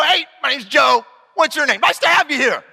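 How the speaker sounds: lightly voiced cheery kid introducing himself; a hint of a chirpy hello; mock teen greeting. Pastor imitating a kid the workers expect, cheery greeting. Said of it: "They're not gonna go".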